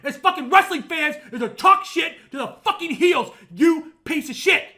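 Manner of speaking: loud, heated rant building up; real angry shouting; worked up rant. Real, not acted. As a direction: get worked up and shout it at the room. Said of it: "I'm getting fucking worked up".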